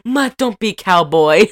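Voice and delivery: mock Italian mother's plea; Italian mom accent. Mom objecting to his country music plan, mock Italian accent. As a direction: plead in a put-on Italian accent. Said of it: "when he would impersonate her".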